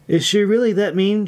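ask, worried about Cora. A narrator's reading. May asks Irene about Cora, worriedly. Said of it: "she asked worriedly".

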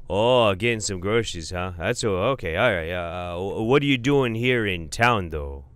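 put-on loud Upper Peninsula uncle in a Fargo accent; crazy Manitoba-ish Fargo accent, booming. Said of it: "Manitoba-ish sounding Fargo accent".

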